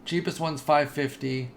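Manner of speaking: talking through hiccups; interrupted by a hiccup. Real, not acted. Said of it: "oh, not the hiccups again".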